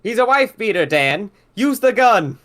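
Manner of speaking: high-pitched urgent plea; yelling out. Acted. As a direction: urge your friend to act, now. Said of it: "so West yells out".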